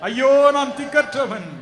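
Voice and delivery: preacher voicing a pleading wail in words; voiced lament. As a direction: lament as one forsaken. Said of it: "என்று புலம்புவீர்களா?".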